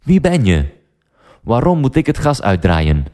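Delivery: mildly startled, asking who is calling; David puzzled by the stranger's demand; surprised. Acted. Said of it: "vraagt David verrast".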